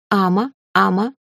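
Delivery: odd dragon voice, barely words. Acted. Dragon reaches out its paw and babbles to the heroine. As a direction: sound out like a beast trying to speak. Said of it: "произнёс дракон".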